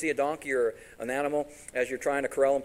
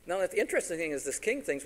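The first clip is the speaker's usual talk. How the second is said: ordinary delivery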